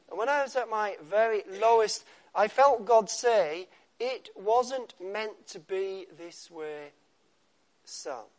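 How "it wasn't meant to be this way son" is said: gentle voice of God. Pretend. God's gentle voice in story.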